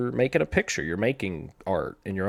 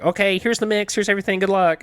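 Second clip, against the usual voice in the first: high, loud mimicked woman; breezy boss handoff; 12 semitones higher, 9 dB louder than usual. Co-host handing off messy files to the editor, mock breezy. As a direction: toss it over in a loud singsong, much higher. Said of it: "She's like".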